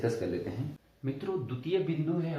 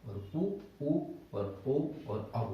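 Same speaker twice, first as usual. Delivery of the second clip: slow vowel list; slower than usual. Shown as a demonstration. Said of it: "वो होते हैं चार".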